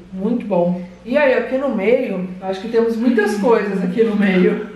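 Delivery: eating and speaking; talking while chewing. Real, not acted. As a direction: mouth partly full of brownie. Seen 3: Woman eats brownie pieces throughout, feeds more at 2.9s while talking.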